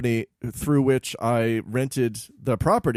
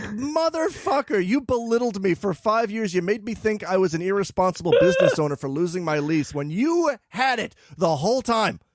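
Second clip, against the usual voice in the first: mock outrage; 6 semitones higher than usual. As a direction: play the wronged customer exploding. Outburst at accountant in story.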